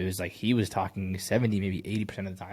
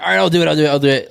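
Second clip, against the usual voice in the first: loud, high, fed-up mock caving; exasperated giving in; 8 semitones higher, 15 dB louder, much faster than usual. Reviewer mimics the worn-down customer caving in, loud and high. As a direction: throw up your hands and give in, yelling. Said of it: "she's like".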